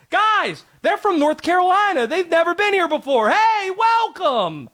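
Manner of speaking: mock-excited tailgate hosts calling to a guest; welcoming Southern fans. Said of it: "they were like".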